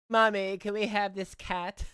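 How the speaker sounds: put-on whiny child voice. Mocking him begging his mother.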